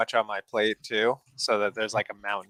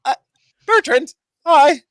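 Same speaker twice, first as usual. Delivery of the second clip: high, slow, strained hello; strained greeting; 13 dB louder than usual. Acted. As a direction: choke out a greeting. After choking on food.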